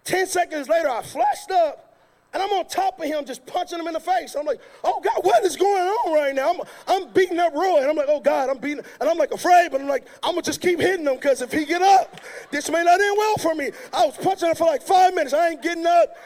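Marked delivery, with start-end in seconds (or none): 4.8-13.7 loud, stunned inner voice; frantic disbelief. Retold or imitated. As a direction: panic while swinging. Retold frantic thoughts mid-fight.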